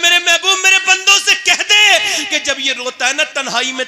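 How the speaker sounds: lightly voiced divine address; voice of God. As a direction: proclaim it as God speaking. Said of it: "अल्लाह फरमाता है".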